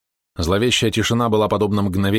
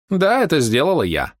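high, louder triumphant admission; proud confession; 9 semitones higher, 3 dB louder than usual. Acted. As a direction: own it without shame. (гордое признание злодейки)

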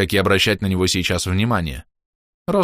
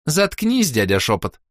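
put-on high teen girl echo of заткнись; girl's echo; 7 semitones higher, slower than usual. A narrator's reading. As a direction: mimic the baroness, high and cheeky. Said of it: "повторила Роска".

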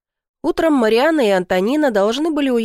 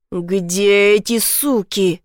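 slow, drawn-out furious yell in her face; father roars at the daughter, dragging each word; much slower than usual. A narrator's reading. Father yelling at daughter about missing sisters, slow furious yell. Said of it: "заорал мне в лицо".

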